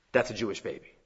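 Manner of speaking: quiet dawning recognition; hushed realization. Acted. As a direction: drop to a low, soft murmur. Pharaoh's daughter realizing quietly.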